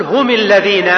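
هم الذين said as humi lladhin, mim with kasra; هم with the heavy kasra, humi lladhin; heavy kasra form. Shown as a demonstration. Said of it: "فيه ثقل".

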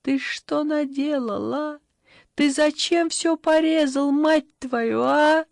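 loud, high furious yell; high angry shouting mother. A narrator's reading. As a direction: scream at the boy. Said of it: "завопила Татьяна".

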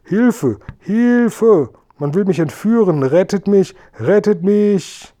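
sehr hohe, gespielte Hilferufe; Hilfeschreie. A narrator's reading. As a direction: als alte Dame gellend um Rettung rufen, am Ende gedehnt. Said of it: "ich werde um Hilfe schreien". (hoch und langgezogen um Hilfe schreien)

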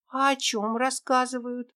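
lightly voiced young girl asking her friend; little girl Tera. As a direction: play a small lost girl, hopeful.

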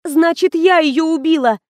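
high, loud panicked blurt; sudden alarmed outburst. A narrator's reading. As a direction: burst out with the confession. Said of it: "выпалила я".

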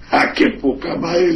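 mock sarcastic retort. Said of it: "le digo".

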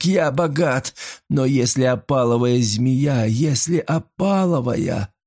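a broken man pleading for his life; desperate pleading. A narrator's reading. Ruined master begs the maid not to betray him.

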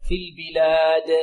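slow في البلاد with a bouncing final د; qalqala on dal. Shown as a demonstration. Teacher models Quran recitation, bouncing the د of البلاد. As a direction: draw out البلاد, then release د with an echo. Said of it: "الدال المقلقلة كذلك".

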